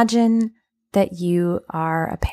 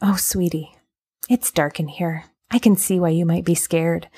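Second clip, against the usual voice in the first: gentle validating parent. Retold or imitated. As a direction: calmly comfort a scared child. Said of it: "try this one on for size".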